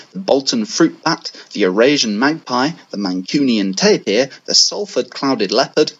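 a lightly put-on Mancunian accent, read out steadily; mock Mancunian accent for a Wikipedia reading. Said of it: "I shall attempt to read in an authentic Mancunian accent".

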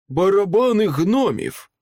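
high, forceful cry of alarm; alarmed exclamation. A narrator's reading. Foraker warns the group of gnome drums, in alarm. Foraker identifies an enemy threat.

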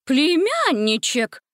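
high, slow, delighted gasp; gasping witch. A narrator's reading. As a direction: marvel at the nephew. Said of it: "ахнула Гингема".

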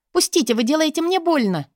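high, strained cry of pain; pained plea. Acted. Katya begging the boss to let go, high pained cry. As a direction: beg him to let go, hurting. Boss hurting her shoulder.

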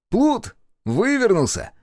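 high, loud teasing; amused jeering. A narrator's reading. Oscar jeering at Marsel's clever escape, high and loud. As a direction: call him a rogue with glee. Boy laughs at dodge.

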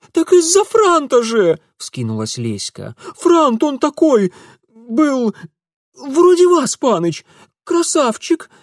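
put-on very high, loud girlish gushing; dreamy drawl. A narrator's reading. Girl gushing about the dandy to Mitya, very high and loud. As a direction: swoon over the dandy. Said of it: "мечтательно протянула Леська".

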